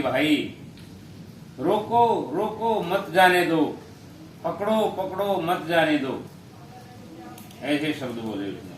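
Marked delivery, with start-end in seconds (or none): 0.0-6.3 high, raised imitation of a parrot's alarm; imitated urgent cry. King quotes the parrot to the sadhu, high urgent calling. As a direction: repeat the cries high and urgent, easing slightly.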